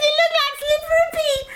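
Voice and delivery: breathy whispered aside. Retold or imitated. Puppet retelling Mama's words in a whisper. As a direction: hush it like a secret.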